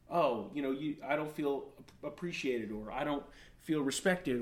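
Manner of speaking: a hint of wounded wife; hurt spouse. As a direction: admit it reluctantly. Spouse admits hurt, lower softer.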